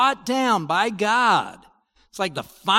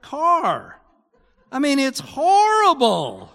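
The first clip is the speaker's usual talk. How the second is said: higher, louder mock complaints about lost comforts; mock whining consumer; 4 semitones higher, 5 dB louder than usual. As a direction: ham up a spoiled shopper's wailing. Mocks merchants lamenting lost comforts.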